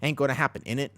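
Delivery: half-hearted British accent attempt. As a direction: try a rough British accent, badly. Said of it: "speak like a British person".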